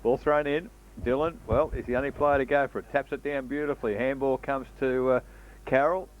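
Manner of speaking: quick radio football call; country radio footy commentary; live play-by-play. Acted.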